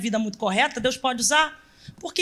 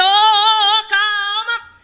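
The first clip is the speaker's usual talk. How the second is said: mock mother calming; 6 semitones higher, 7 dB louder, much slower than usual. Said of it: "a mãe chega e diz".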